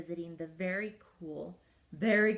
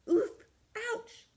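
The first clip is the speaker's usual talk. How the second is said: penguin yelp; 14 semitones higher, 5 dB louder than usual. Acted. Penguin crashes into flags.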